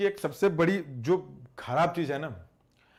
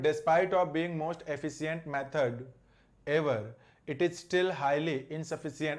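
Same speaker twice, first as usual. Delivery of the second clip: slow sentence read-aloud; much slower than usual. Shown as a demonstration. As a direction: read the English sentence out slowly and deliberately. Reads question sentence slowly.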